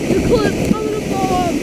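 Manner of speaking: fast, loud panicked. Real, not acted. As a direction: rush it out in fear. Sliding toward cliff.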